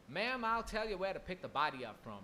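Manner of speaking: put-on cowboy accent threatening the mother. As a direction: do the kidnapper as an American cowboy accent. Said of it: "like a cowboy or something".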